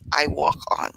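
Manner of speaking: unvoiced whispered echo; final line whispered like an echo. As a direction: breathe the last line as a whisper. Echo at the poem's end.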